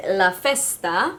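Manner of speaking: put-on Italian accent, rising at the end. Makeup vlogger showing off a shade name, Italian accent. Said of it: "did you like my Italian accent".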